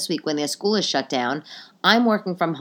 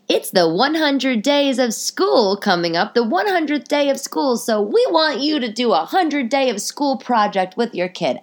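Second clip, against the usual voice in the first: sing-song mocking the teacher's note, higher; 6 semitones higher, 3 dB louder than usual. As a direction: parrot the school note in a sugary voice. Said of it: "and it was like".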